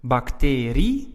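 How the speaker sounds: Bacterie slowly, with a long stressed TE. Shown as a demonstration. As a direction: stretch the TE in Bacterie. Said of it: "pronounce the I and the E separately".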